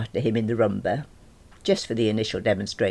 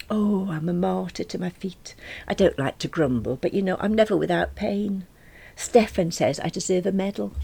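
high, plaintive grumble; self-pitying character voice; long-suffering Nick; 8 semitones higher than usual. Acted. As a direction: complain like a martyr, pitched up. Voices Nick moaning about his feet.

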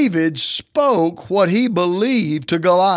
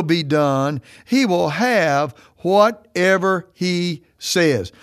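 slow, weighty scripture reading; slower than usual. Acted. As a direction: lean on every word of the verse. Reads Mark 11:23 slowly.

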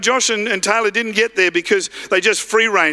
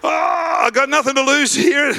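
higher-pitched acted outcry; crying out; 5 semitones higher than usual. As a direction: imitate a desperate beggar calling out. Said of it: "he cries out and he goes".

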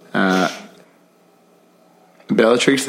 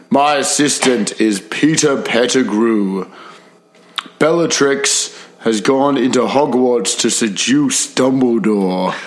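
sneering panto villain; 2 semitones higher than usual. Acted. Villain voice continues.

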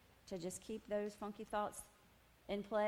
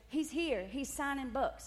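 excited; 7 semitones higher, 5 dB louder than usual. Retold or imitated. Friend's excited news.

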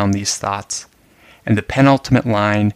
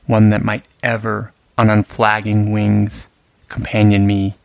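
poem recitation. Acted. Reads the sonnet aloud.

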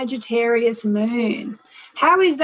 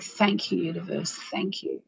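grateful whisper; 5 semitones lower, 7 dB quieter than usual. Shown as a demonstration. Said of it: "And just think".

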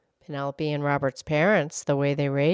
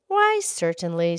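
gently welcoming, understated; kindly; slower than usual. Acted. Please welcoming a tired guest, kindly. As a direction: offer it kindly, a hint of warmth. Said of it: "said the other please kindly".

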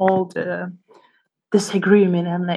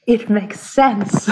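slow, lightly done late-night radio host; drawn out like a late-night DJ; slower than usual. Retold or imitated. Teasing Kevin by imitating his late-night DJ voice, slow. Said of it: "with your late night D J voice".

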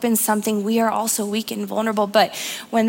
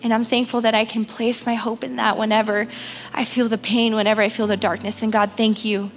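prayer. Real, not acted. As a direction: pray gently for the room. Leads the congregation in prayer.

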